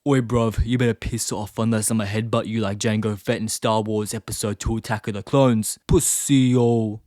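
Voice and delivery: hammed-up London roadman slang threat; rough london slang. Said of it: "headbutting related gang violence in the U K".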